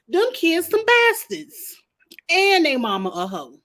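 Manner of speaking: high, slow, loud accusing outburst; mock furious accusation. Sea Snake's brother denouncing the queen's kids, retold as a hammed-up furious yell. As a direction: spit the insult out for the whole court.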